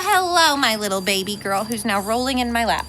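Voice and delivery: high, excited pet cooing. Real, not acted. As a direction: squeal at the puppy. Cooing at the puppy.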